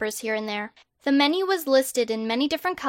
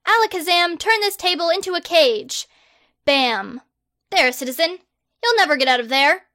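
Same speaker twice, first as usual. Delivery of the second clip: loud, grand, self-important; pompous boy wizard; 5 semitones higher, 4 dB louder than usual. Acted. Harry the Great loftily turning down a survey, loud and pompous. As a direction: proclaim yourself like a hero.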